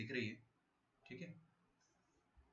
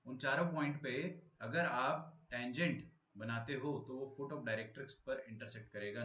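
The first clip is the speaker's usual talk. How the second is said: slow, softer repeat of the point; slow, patient restatement; slow re-explaining; 4 dB quieter, slower than usual. Shown as a demonstration. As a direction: spell it out again slowly for confused students. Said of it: "नहीं आया समझ में?".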